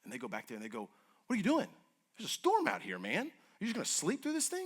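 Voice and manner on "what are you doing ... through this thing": panicked shout. Retold or imitated. Panicked disciples wake Jesus in storm.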